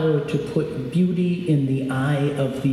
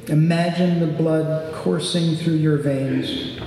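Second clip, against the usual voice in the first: guided meditation. Acted. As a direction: guide them into calm. Leads a meditation.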